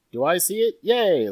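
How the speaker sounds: high, loud question bursting into a cheer; mock eager cheer. Last player in a big party passes the check, mock eager cheer. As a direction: play the player who finally passes.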